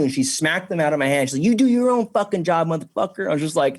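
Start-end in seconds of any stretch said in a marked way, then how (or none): 1.4-3.3 mock daughter voice. Daughter cursing him out, retold.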